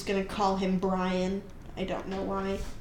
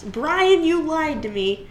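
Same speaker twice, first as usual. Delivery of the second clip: high, loud cry of betrayal; imitated scream; 5 semitones higher, 5 dB louder, slower than usual. Boy screaming at Brian for cheating. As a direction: yell it like you were cheated. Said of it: "he screams".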